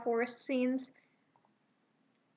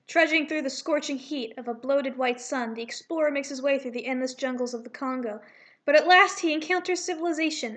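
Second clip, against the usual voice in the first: grand explorer-film narration, building louder at the end; documentary narrator; 4 dB louder than usual. Acted. Narrator voice-over for the cats' arrival, swelling grandly. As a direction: read it like an old jungle documentary. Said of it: "we hear someone narrating".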